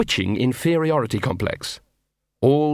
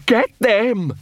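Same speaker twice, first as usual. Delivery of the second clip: furious shout; 9 semitones higher, slower than usual. A narrator's reading. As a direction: whip the pack into attack. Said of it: "snapped Big Fido".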